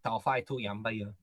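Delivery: Vietnamese accent. Real, not acted. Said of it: "I love your Vietnamese accent".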